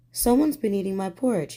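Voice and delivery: a mild growl, a hint of a gruff Daddy Bear; lightly voiced father bear, only a touch cross. Daddy Bear finds his porridge eaten, mild growl. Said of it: "he growled".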